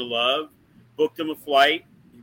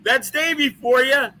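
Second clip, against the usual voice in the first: mocking quip; 8 semitones higher than usual. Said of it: "everybody ... was giggling".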